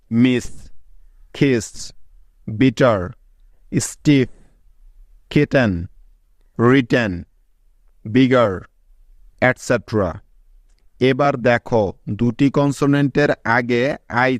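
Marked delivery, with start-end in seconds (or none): 0.1-8.5 মিস, কিস, বিটার said as separate English words with short i; English example words. Shown as a demonstration. Teacher gives students double-letter examples মিস, কিস, word by word. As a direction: list মিস to বিগার one by one, each ending with a pause, short i sound. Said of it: "যেমন".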